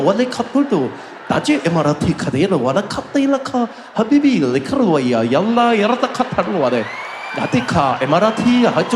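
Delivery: gibberish Arabic sounds in a swooping, sing-song announcer tune; mock Arabic announcement. Mocking the Emirates safety video in fake Arabic gibberish. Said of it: "the video comes on".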